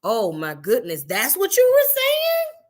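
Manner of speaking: lifted, searching questions to God; praying to God aloud. Retold or imitated.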